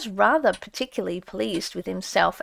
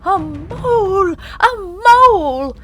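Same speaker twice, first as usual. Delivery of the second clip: high, loud battle shout; war cry; 9 semitones higher, 8 dB louder, slower than usual. A narrator's reading. Mole charging into the hall, shouting his war cry. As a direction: yell it as a charge. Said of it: "shouting his awful war cry".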